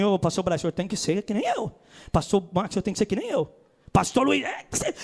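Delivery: mock preacher building to a shout on the last demand; imitating a pushy preacher. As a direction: lightly play a zealous brother, then yell the demand. Pastor mimics a pushy preacher. (imitando um pregador exaltado)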